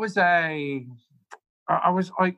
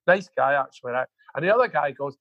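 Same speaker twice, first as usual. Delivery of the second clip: usual speaking voice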